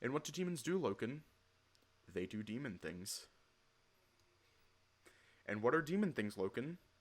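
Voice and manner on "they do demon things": terse put-on character voice. Asking Loken about demons, answering in a Loken voice. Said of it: "I put on my best Loken voice".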